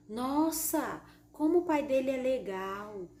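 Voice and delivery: NOSSA exclaimed, then impressed praise; admiring exclamation. Shown as a demonstration. Teacher demonstrating exclamation marks, admiring tone. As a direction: exclaim it with admiration, stretching LEGAL. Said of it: "Então, ponto de exclamação".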